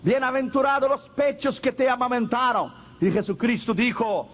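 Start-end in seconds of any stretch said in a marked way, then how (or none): 0.0-2.8 mild retold cry. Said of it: "La mujer gritó y dijo".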